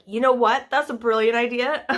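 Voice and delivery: mock enthusiastic yes-men; mock eager producers. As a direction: play the producers gushing at a bad idea. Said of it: "fifteen guys from London were like".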